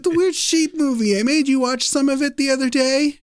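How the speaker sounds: selling the movie to a puzzled wife; excited insistence. Retold or imitated. To his wife, eager about the sheep movie, excited. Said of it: "I said".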